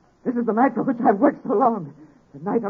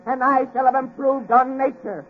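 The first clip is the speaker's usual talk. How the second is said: higher and higher, slowing on the last line; rising exaltation; 7 semitones higher than usual. Acted. Victor to Waldman as the giant wakes, rising frenzy. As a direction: build to a godlike climax. Creation moment, mounting frenzy.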